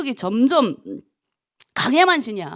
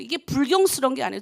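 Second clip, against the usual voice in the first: ordinary delivery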